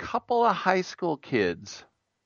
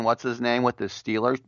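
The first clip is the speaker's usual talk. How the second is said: ordinary talk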